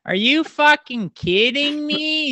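Phil Kessel's high voice. Retold or imitated. Teammate mimicking Phil griping in his high voice. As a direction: stretch it out in a high squeaky whine. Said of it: "he's just got this higher pitched voice".

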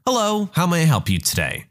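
customer service voice. Retold or imitated. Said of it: "With my customer service voice and smile".

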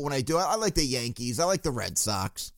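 lightly imitated noncommittal fan, soft and low; mock casual fan. Casual fan admitting team choices, lightly mocked. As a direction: let the voice sink into a mock lukewarm admission. Mimics a half-hearted fan.

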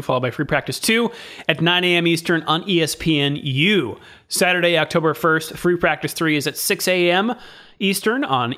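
lively broadcast schedule read; upbeat sports listings. Acted. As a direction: announce the race times like a promo. Reads race schedule.

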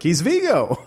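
high little grandma voice; doting grandparent. Retold or imitated. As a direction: squeak it like a sweet old granny. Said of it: "the clump grandma being like".

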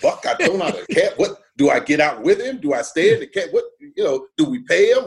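mock panicky flurry of questions; scared puppy. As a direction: play the lost, nervous passenger. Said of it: "like a little scared puppy".

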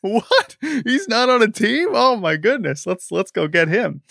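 hammed-up shock, pitched high and drawn out; mock surprise. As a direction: act out the owner suddenly realizing. Imagined owner discovers free agent.

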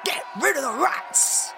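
high-pitched protest cry; crowd shouting. A narrator's reading. Townspeople outside the mayor's house, shouting about rats. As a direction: chant it like one of a mob. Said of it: "Some of them were shouting".

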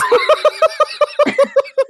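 a real cackling laugh, high and loud; loud high laughter. Real, not acted. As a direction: let a big high laugh burst out. Laughing at own joke.

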